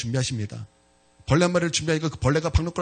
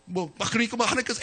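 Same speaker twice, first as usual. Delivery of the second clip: usual speaking voice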